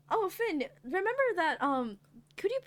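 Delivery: slightly high, eager small talk; chirpy busybody charm; sweet chatty Taka. Acted. Taka making sweet small talk with the bride.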